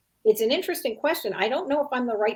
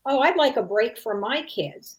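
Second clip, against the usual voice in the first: mock callous judge; 3 semitones higher, 4 dB louder than usual. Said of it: "So callous".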